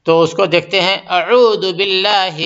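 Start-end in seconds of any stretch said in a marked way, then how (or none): 1.2-2.4 اعوذ with a clear throaty ain at the start. Shown as a demonstration. Teacher showing students a clear ain in اعوذ. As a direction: say اعوذ slowly, ain sharp and distinct. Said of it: "صاف کریں گے".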